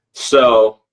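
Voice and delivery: normal talking voice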